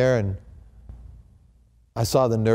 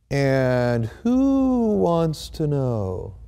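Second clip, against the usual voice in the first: very slow, drawn-out guarded question in a changed voice; suspicious nurse; much slower than usual. Retold or imitated. The hospital nurse challenging the visitor, slow and suspicious. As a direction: eye the stranger and make him justify himself.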